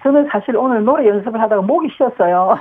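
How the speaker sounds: slightly hoarse, worn-out voice. Real, not acted. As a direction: talk through a tired, rough throat. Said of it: "목이 약간 잠기셨는데".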